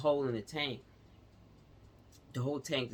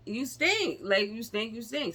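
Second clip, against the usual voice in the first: much higher and louder, hitting stink hard; no other way to say it; blunt insistence; 9 semitones higher, 4 dB louder than usual. Real, not acted. Emphatic blunt repeat.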